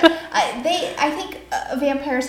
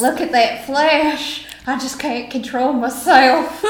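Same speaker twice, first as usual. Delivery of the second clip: 1 ravenous vampire; 4 semitones higher, 6 dB louder, slower than usual. Pretend. Hungry vampire losing control.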